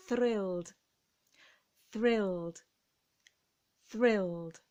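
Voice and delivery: thrilled said slowly as one syllable, th, r, l and a clear final d; model pronunciation. Shown as a demonstration. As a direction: model the word for learners to repeat. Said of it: "Try it with me".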